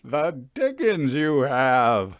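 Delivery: slow, savouring delighted exclamation. Acted. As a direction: relish the news with delight. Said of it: "his eyes all a-sparkle with delight".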